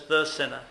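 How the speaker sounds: "the sinner" with "the" held and falling; stress on THE. Shown as a demonstration. Preacher repeating the correction to the congregation, stressing "the". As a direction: press "the" hard, "sinner" follows. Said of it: "It says".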